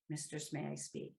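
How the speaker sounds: hushed, deferential ask; softly asked permission. Shown as a demonstration. Demonstrating how a sub must ask permission, hushed. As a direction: ask humbly, barely above a murmur. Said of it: "They need to say".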